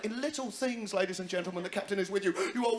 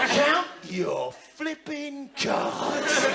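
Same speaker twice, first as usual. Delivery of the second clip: bullying order; 5 semitones higher, much slower than usual. Acted. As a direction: drag out each word as a shouted order. Captain orders birthday count.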